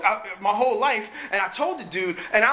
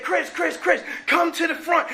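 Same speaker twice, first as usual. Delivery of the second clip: raised, higher call of his name; calling out across the room; 6 semitones higher than usual. Retold or imitated. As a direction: hail him from across the building. Coworkers calling him to front.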